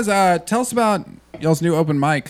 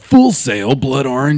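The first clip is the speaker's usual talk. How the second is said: movie trailer voice; 5 dB louder, slower than usual. Pretend. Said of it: "read it like a trailer?".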